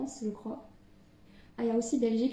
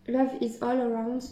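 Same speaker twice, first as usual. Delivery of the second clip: the English title read in a light British accent; a lightly British English reading of the title; a modest, slightly self-conscious British accent on the English words. Shown as a demonstration. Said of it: "je suis désolée pour mon accent, euh, british".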